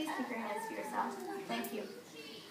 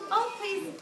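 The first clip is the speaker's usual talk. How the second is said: pleading wild thing; 7 semitones higher than usual. Acted. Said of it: "the wild thing cried".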